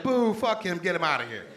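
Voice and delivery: mock heckle, starting high and dropping back; booing crowd. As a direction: imitate a crowd booing a comic off. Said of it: "they boo me right away".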